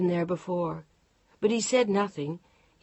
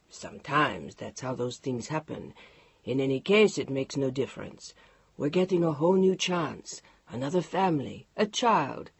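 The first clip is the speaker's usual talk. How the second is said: low, unhurried husband with a teasing French goodbye; lightly lowered male voice; Mark's voice; 3 semitones lower than usual. Acted. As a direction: play the calm husband, lower. Mark voiced in read story.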